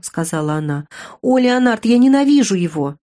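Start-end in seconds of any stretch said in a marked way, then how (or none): 1.2-3.0 higher, louder cry of hatred; passionate outburst. Acted. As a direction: burst out against him. Jen cries out her hatred.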